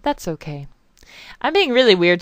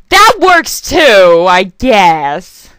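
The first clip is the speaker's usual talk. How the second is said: squeaky drawn-out remark; 2 semitones higher, 10 dB louder, much slower than usual. Real, not acted. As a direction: squeak it out in mock surprise. Squeaky slow.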